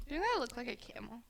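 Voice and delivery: mumbled fast. Real, not acted. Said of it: "One more time?".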